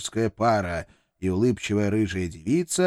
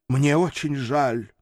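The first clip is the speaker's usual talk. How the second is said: strained, slow apology; 3 semitones higher, slower than usual. Acted. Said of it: "не своим голосом выдавил".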